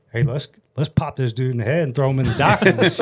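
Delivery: put-on a teenage hothead joking about a hit; younger self, laughing. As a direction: voice the reckless teen self with a laugh. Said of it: "the seventeen-year-old me is going".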